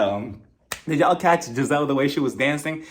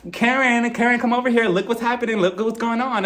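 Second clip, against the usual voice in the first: tattling call, higher; 6 semitones higher than usual. Retold or imitated. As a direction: call her over to tattle. Acting Giselle tattling to Karen.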